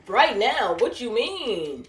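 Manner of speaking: drawn-out, incredulous reaction; retold disbelief. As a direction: stretch it out, baffled by the order. Retold shock at call order.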